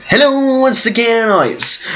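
high, sing-song show-intro greeting; badly attempted impression of a famous host's hello; Tabasco. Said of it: "stealing some famous guy's intro".

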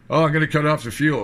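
hammed-up whiny threat; mocking threat. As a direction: parody a bluster you find silly.

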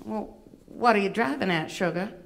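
sassy Southern belle puppet; syrupy Southern accent; Miss Bevy. Acted. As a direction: question her in a put-on Atlanta accent. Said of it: "she does have a bit of an accent".

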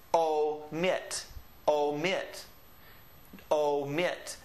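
"omit" with a full long OH to start. Shown as a demonstration. Teacher showing the O sound in this word, "omit" with long OH. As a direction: sound out "omit" as OH-mit, the O clearly held. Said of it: "sounds like our long O, like in this word".

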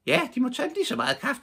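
put-on a kindly old lady fussing; fru Flora. A narrator's reading. Fru Flora cheerfully wishing them coffee, high. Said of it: "sagde fru Flora".

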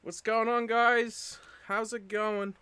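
out of breath. Real, not acted. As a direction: greet them while still panting. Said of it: "I'm out of breath".

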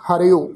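ਹਰਿਓ with a short i on ਰ gliding into o; teacher's model reading of ਹਰਿਓ, ha-ri-o; careful pronunciation. Shown as a demonstration. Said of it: "ਪਾਠ ਉਚਾਰਨ ਕਰਾਂਗੇ ਜੀ".

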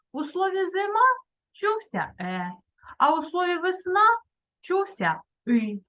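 put-on lively fairy-tale telling for children; story narration. A narrator's reading. Teacher telling pupils a grammar fairy tale, storytelling voice. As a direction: tell it like a bedtime tale for kids.

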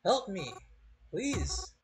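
high, desperate cries for help; panicked screaming. Acted. Trapped in a coffin, screaming for help, panicked. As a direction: scream as if the air is running out.

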